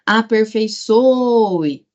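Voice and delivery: aperfeiÇOOOe, ÇO drawn right out; calling the word. Shown as a demonstration. Teacher checking the accent, calling the word. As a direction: call out Aperfeiçoe, holding ÇO.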